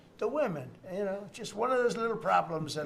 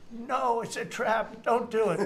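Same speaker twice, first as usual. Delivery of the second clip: high, slow mock wail; drawn-out, raised imitation of a panicked plea; mock alarmed warning; 7 semitones higher, 4 dB louder than usual. Consultant begging his party not to do it, mock alarmed warning. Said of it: "he's going, it was funny".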